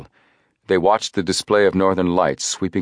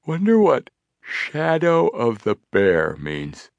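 slow, drowsy half-yawn; sleepy voice, drifting off; 5 semitones higher, slower than usual. A narrator's reading. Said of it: "Frank yawned and said sleepily".

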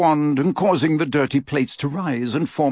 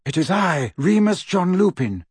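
raised, high-pitched call; calling over wind; 7 semitones higher than usual. A narrator's reading. Lupin calling from outside the door, raised voice. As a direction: announce yourself over a howling wind. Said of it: "called a voice over the howling wind".

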